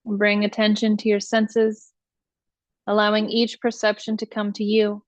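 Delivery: measured meditation voice, long pauses between instructions; guided meditation. Acted. Teacher leading listeners through iRest practice, guided meditation voice.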